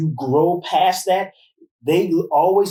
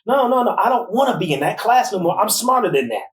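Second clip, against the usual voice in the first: imitating a defiant student, higher at first; insistent refusal; 5 semitones higher than usual. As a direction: push back at the teachers, pitch raised then easing. Acting out daughter refusing teachers.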